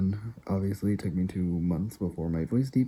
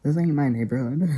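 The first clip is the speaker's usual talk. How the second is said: rising, louder disbelief; mock indignant you-can't-be-serious; incredulous retort; 4 semitones higher, 3 dB louder than usual. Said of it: "I'm like".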